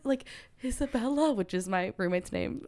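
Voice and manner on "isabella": mock feeble call for a roommate. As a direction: softly call the name, retelling it. Calling for roommate while dizzy.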